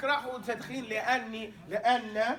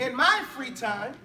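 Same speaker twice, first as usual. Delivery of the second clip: slow, louder gloss, each word spaced; 5 dB louder, slower than usual. Shown as a demonstration. Teacher translates the phrase slowly for his students. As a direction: spell out the meaning slowly. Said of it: "teacher glosses slowly".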